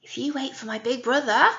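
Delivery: light, eager little goat pleading with the troll; little goat talking his way past the troll. Acted. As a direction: squeak out the bargain like the smallest goat. Little goat voiced in story.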